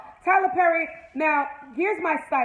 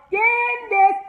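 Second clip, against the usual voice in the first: high, slow, proud announcement; excited; 10 semitones higher, 7 dB louder than usual. Real, not acted. Recapping the show to viewers, introducing Candace with slow excited pride. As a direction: hype her favorite up, drawn out.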